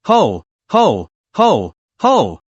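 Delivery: ho ho ho, a broad scornful laugh; loud mocking laugh. Wei Mengde laughs at the crying ministers, scornful laugh. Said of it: "laughed out loud".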